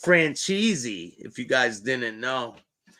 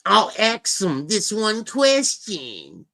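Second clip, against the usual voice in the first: mock solemn; 6 semitones higher, 4 dB louder, slower than usual. Real, not acted. Slow mock-serious setup.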